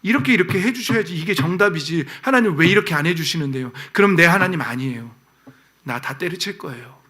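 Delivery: sulky believer making demands, ending in giving up; mock petulant protest to God; retelling his old complaint. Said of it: "그때 제 믿음 그거였어요".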